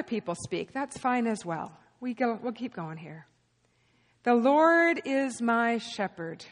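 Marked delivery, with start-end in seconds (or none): 4.2-6.5 very slow reading with long pauses; slow scripture reading. Shown as a demonstration. Preacher reading the psalm for congregation to interrupt, very slowly. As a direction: leave space between phrases for interruptions. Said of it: "I'm gonna read it slowly".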